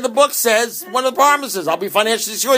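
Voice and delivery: high, insistent protest; indignant retort. Retold or imitated. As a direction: argue your point up high. Retold argument with sponsor.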